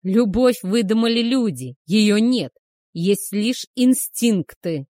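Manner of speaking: loud sharp command to be silent; a werewolf barks at his lover to shut up, loudly; barked. A narrator's reading. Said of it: "рявкнул он".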